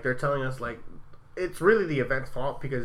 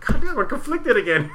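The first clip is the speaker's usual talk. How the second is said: laughing exasperation; 10 semitones higher, 6 dB louder than usual. Retold or imitated. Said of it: "it made me like".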